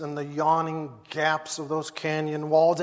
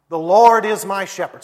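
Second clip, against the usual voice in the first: leading the recitation; 3 semitones higher, 10 dB louder than usual. Shown as a demonstration. Pastor leading his church in reciting the psalm, proclaiming. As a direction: proclaim the line for the church to repeat. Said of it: "Say it with me".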